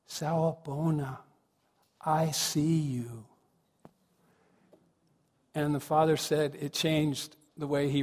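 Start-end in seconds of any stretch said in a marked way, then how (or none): 0.1-3.2 slow, gentle greeting with room around it; tender, earnest. Retold or imitated. Son holding his busy dad's face, slow and earnest. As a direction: draw it out softly and sincerely.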